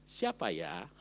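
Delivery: low, gentle and hushed; a soft, sweet "Siapa ya?". Retold or imitated. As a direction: ask it tenderly, almost coaxing. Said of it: "Kalimatnya lebih lembut lagi".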